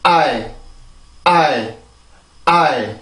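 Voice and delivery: teacher models 아이 as one smooth glide; 아이 said as one gliding syllable, ah into ee; pronounced demo. Shown as a demonstration. Teacher repeating the pure English 아이 for students, one smooth glide. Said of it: "한 번 더요".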